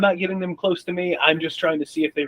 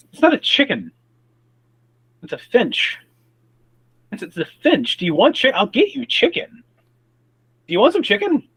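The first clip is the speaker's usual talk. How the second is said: high, coaxing, as if to a pet; 8 semitones higher, 3 dB louder than usual. Acted. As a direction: coax the crows with treats. Talking to the crows.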